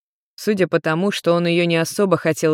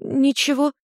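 put-on flustered girl; 8 semitones higher than usual. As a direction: brush it off, embarrassed.

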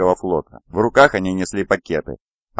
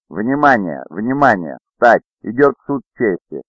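lightly voiced court crier. A narrator's reading. Bailiff calls the courtroom to rise, crier's call.

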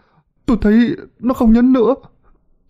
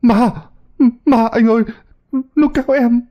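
high-pitched terrified cries; frantic, high shrieks of fright; panicked scream; 12 semitones higher, 3 dB louder than usual. A narrator's reading. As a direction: cry out for help in sheer panic. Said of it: "la lên hoảng hốt".

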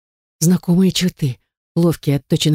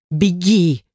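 fiercer bark. A narrator's reading. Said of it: "рявкнул он ещё яростнее".

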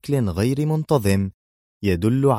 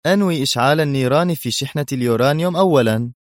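coldly; 6 semitones higher, 5 dB louder, faster than usual. A narrator's reading. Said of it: "أجابها ببرود".

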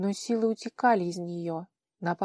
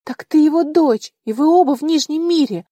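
much higher and louder, aghast; shocked outcry; 8 semitones higher, 13 dB louder than usual. A narrator's reading. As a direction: realize the horror all at once. Женщина потрясена открытием. (потрясённо, громко)

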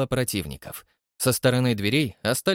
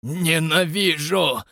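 hoarse hiss; 4 semitones higher, 3 dB louder, much slower than usual. A narrator's reading. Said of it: "хрипло прошипел".

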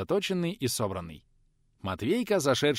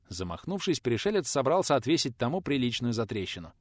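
ordinary delivery, nothing marked

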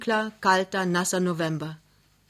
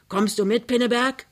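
raised call, climbing high at the end; 5 semitones higher, 5 dB louder than usual. A narrator's reading. Neighbour outside asks Pinneberg to come along, calling out. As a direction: call to someone indoors. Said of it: "ruft eine Stimme".

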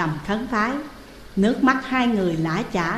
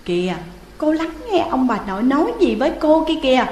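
put-on gently coaxing child voice; softened child; 5 semitones higher, faster than usual. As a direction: ease off and coax her to listen. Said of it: "Thẩm xuống nước".

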